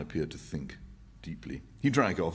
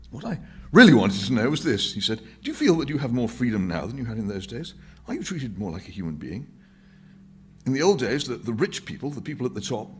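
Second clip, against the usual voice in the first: higher, earnest and persuasive; Winston's voice; 7 semitones higher, 8 dB louder than usual. Acted. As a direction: press the point to the old man.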